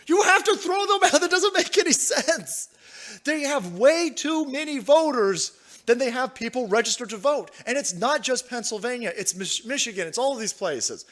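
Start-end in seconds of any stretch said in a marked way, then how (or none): 0.1-5.6 exasperated outburst. Real, not acted. Telling his chat the ballots must go, incredulous outburst. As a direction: throw up your hands in disbelief.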